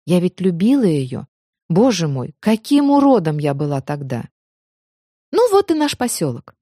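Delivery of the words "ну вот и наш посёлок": торжественно объявляет. A narrator's reading. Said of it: "возвестила Майя".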